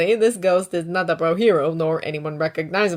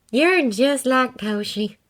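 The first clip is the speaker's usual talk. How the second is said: sighing fondly; 5 semitones higher, 4 dB louder, slower than usual. A narrator's reading. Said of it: "Miss Shimura sighs".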